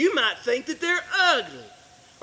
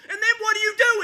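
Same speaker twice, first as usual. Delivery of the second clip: loud, high, demanding question; raised voice demanding an answer; 9 semitones higher, 4 dB louder, faster than usual. Acted. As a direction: throw the question at them hard.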